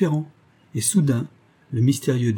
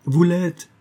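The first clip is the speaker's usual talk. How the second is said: higher and louder, hard and blunt; brutal retort; 7 semitones higher, 4 dB louder than usual. A narrator's reading. James brutally answers the traitor, blunt and hard. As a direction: slam the verdict down. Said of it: "affirma brutalement James".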